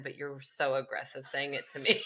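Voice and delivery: laughing while teasing. Real, not acted. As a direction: giggle through the words. Laughing at friend's rant.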